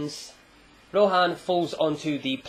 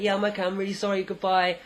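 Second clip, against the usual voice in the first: lightly voiced higher kid's apology; apologetic kid; 5 semitones higher, faster than usual. Kid apologising to the man he bumped, higher mock-kid voice. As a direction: voice a sheepish kid, pitched up.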